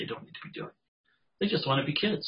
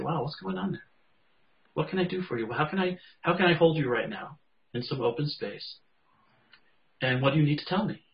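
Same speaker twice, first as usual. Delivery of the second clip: tender. Acted. Voicing caring talk to inner part.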